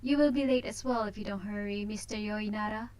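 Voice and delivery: a hint of a smug heiress; haughty young lady. Voices Tina's teasing lines.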